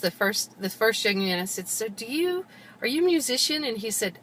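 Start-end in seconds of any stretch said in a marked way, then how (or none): 1.7-3.6 tentative question. Retold or imitated. Retells own hopeful question.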